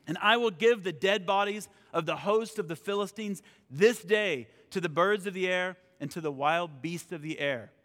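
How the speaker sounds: emphatic proclamation from the Bible; scripture reading, David's defiance. Acted. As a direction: read it out as a bold declaration. Reads scripture aloud.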